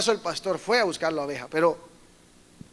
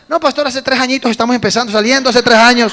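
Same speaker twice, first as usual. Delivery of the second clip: sheepish confession; 3 semitones higher, 8 dB louder than usual. Retold or imitated. Young woman tells the pastor how long she has dated, laughing. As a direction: admit it with an embarrassed laugh.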